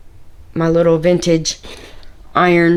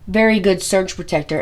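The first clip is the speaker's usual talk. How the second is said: bent over. Real, not acted. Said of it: "if I sound funny, I am bent over".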